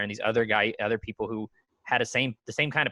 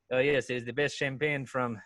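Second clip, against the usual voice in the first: snooty waiter. Retold or imitated. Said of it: "He goes".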